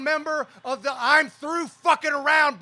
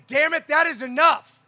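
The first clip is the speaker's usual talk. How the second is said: rallying shout; 3 semitones higher, 7 dB louder than usual. Real, not acted. Union leader rallying the crowd, shouting the refrain. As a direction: punch it out to the crowd. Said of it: "and say".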